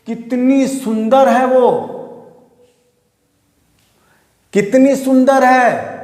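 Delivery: कितनी stressed in a slow wondering exclamation; exclamation demo. Shown as a demonstration. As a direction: marvel at it slowly. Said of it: "अब देखोगे sentence को".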